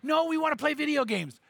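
put-on high whining kids' voice; whiny kids. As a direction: whine like bored little boys. Sons whining, voiced in story.

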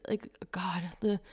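"like, God" whispered under her breath; exasperated whisper. Real, not acted. Vlogger whispering her frustration about the backlash. Exasperated aside mid-rant.

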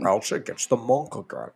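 low, quiet creepy voice; creepy low menace. Retold or imitated. Quoting mashed character line.

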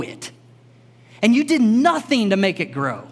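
firm, pressing paraphrase of God; God rebuking Jonah. Retold or imitated. God confronting sulking Jonah, firm and pressing. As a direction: lay out the case to Jonah like a patient father.

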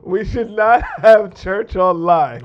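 slow, broken up by a laugh; amused, drawn-out restart; laughing through it. Real, not acted. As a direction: try to get the sentence out through a laugh. Retries the quote while laughing.

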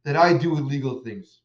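mock-yelling at the rabbi, half earnest; accusing outburst. Smuggler yelling at the rabbi before his execution, mild mock yell. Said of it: "he yells at the rav".

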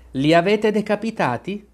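high, demanding yelled question; a touch of a shrieking queen; shouted. A narrator's reading. Queen checks on her executioners, shouting. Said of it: "urlò la regina".

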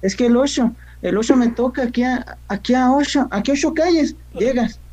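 put-on high sing-song northern accent, "ocho" as "osho"; northern Mexican accent. Northerner giving directions, put-on high sing-song northern accent. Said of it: "los de allá arriba del norte".

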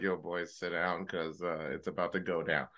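low hushed. Retold or imitated. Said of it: "I'm like".

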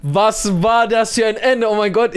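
high, stunned outcry; excited disbelief. Real, not acted. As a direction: shout it in total disbelief. Excited outrage about the ending. (fassungslos aufgeregt)

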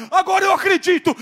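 scared skeptic screams his sudden belief; frantic yell. Retold or imitated. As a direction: shout it as if converted by terror. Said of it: "começou a gritar".

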